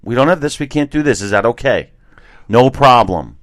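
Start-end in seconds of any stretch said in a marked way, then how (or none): 0.0-1.9 calm, reasonable way to say it; polite calm. Shown as a demonstration. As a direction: say it politely, no fuss. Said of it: "I mean, just say".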